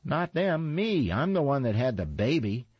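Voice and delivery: high indignant protest, climbing up; yelling back. A narrator's reading. Imogene yelling at Gladys, claiming the baby. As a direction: insist it was you, pitched high and pushy. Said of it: "Imogene yelled back at her".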